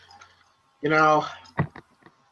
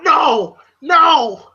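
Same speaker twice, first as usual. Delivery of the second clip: defiant no; 6 semitones higher, 4 dB louder than usual. Retold or imitated. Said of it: "you hear Apollo going".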